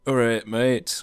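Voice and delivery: casual broad Yorkshire greeting, "All right, mate" clipped to ah-reyt meyt; easy Yorkshire hello between mates; thick Yorkshire accent. Retold or imitated. Greeting his mates in a thick Yorkshire accent. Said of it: "when I'm with my mates".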